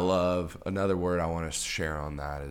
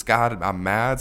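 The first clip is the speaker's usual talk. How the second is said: much louder pretend anger; mad prayer; 3 semitones higher, 9 dB louder than usual. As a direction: blurt it out loud at God. Repeating the angry prayer.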